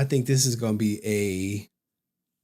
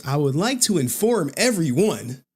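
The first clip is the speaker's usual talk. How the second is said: raised, emphatic public announcement; proud announcement; 4 semitones higher, 3 dB louder than usual. Real, not acted. Father announces news about his daughter, proud announcement. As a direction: declare it to the whole audience, pitch lifted. Mock-formal announcement to everyone.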